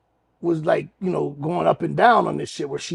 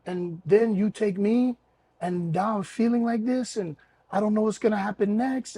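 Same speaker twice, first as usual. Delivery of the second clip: higher, softer put-on voice; relaxed woman impression; 5 semitones higher, 4 dB quieter than usual. Woman explaining her worry to him once relaxed, high soft voice. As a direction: imitate her explaining herself, calmed down, higher and quieter. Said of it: "So she relaxed and she was".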